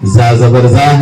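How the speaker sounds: "زا زبر زا" slowly with a pressed, normal z; pressed za demo. Shown as a demonstration. Teacher separating four similar letters, slow pressed z in "زا زبر زا". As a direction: spell out "زا زبر زا", pressing the buzz. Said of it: "زا اس کو دبا کر پڑھنے سے".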